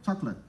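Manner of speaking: Chocolate said the English way, CHOK-lit in two syllables; Chocolate en inglés, «chóklet»; English pronunciation. Shown as a demonstration. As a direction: say Chocolate like an American, dropping the final vowel. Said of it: "cómo se traduce al inglés".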